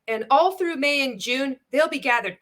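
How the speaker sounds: a hint of sing-song sales pitch; mock promo presenter. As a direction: parrot the presenter's overdone delivery. Mimics the clip just played.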